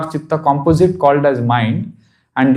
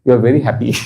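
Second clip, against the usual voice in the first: Krishna's voice; 5 semitones lower than usual. Shown as a demonstration. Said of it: "when we hear that voice of Krishna".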